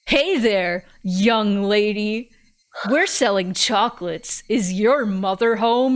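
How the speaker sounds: imitated salesman's patter; put-on charming greeting; trying to charm. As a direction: lay on mock charm for a doorstep pitch. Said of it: "trying to charm her".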